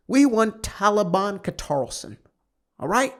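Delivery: high, loud mock southern twang, hammed-up; mock southern-ish accent. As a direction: lampoon conspiracy fans in a put-on southern mishmash. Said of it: "I don't know what accent that is".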